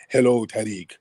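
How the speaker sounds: slow, drawn-out mock vampire greeting, lightly voiced; African vampire imitation. Host mocking the caller's accent as a slow African vampire. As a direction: slowly play a hammed-up vampire mocking the caller. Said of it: "you sound like an African vampire".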